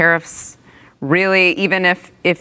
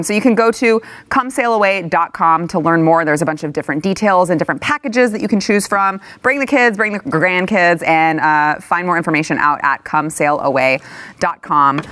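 upbeat sponsor pitch; ad read. Acted. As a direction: pitch the website like a commercial. S0 reads a cruise ad.

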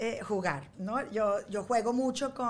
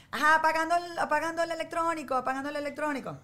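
voz de robot que apaga, algo aguda; robot apagador; 6 semitones higher than usual. Acted. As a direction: anunciar como robot el apagado. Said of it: "tengo un robot que se llama El Apagador". (voz de robot apagador)

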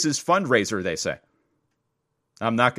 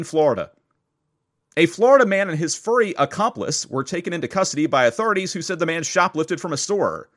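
measured, lightly playful news read. Acted. Host reads a story of a puppy accomplice, news read. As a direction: read the closing item to listeners.

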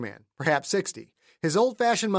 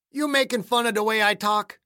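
put-on high-pitched, challenging old hick with an accent; testy accented old-timer; suspicious old man; 6 semitones higher, 4 dB louder than usual. Voices suspicious caretaker Clayton.

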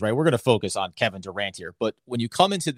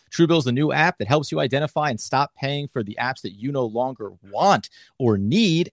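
ordinary delivery

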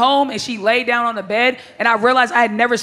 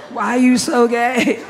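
slow laughing mock; much slower than usual. Mocking the soft boyfriend.

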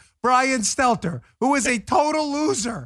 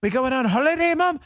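put-on higher, kid putting on British accent; mock British accent; 6 semitones higher than usual. Host imitates American kids asking Mom, mock British accent. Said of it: "now speaking in British accents".

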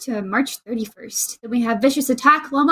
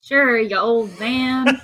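teasing; much slower than usual. Pretend. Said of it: "you wanna call me an old man".

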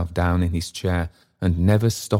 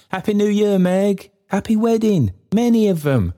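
much higher, shouted good wishes; a crowd cheering the bride; 13 semitones higher, 3 dB louder than usual. A narrator's reading. Neighbours burst in shouting wishes to Meg, cheering. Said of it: "neighbours screaming".

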